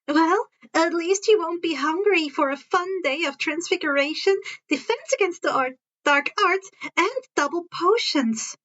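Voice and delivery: lightly voiced Hermione teasing. Hermione teasing Harry at breakfast, playful.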